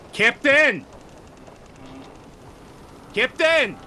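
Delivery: high, loud call for the captain. Acted. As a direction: yell across the deck. Sailor calling for captain.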